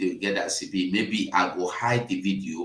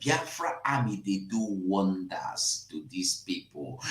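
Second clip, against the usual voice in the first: 1 whisper; 7 dB quieter than usual. Real, not acted. Hushed aside about the army.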